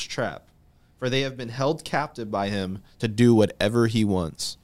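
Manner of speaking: slow, deliberate Bible reading; scripture reading. Acted. Host reading the devil's trap verses aloud, slow scripture reading. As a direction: read it out slowly, letting each phrase land.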